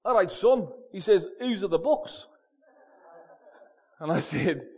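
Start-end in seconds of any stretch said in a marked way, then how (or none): 0.0-0.7 imitated broad Scouse greeting; Liverpool accent. Dad walks in on his son, broad Liverpool accent. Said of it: "in his broad Liverpool accent". 1.4-2.3 imitated broad Scouse question; Liverpool accent. Dad questions son about the bookshelf, broad Liverpool accent. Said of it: "in his broad Liverpool accent".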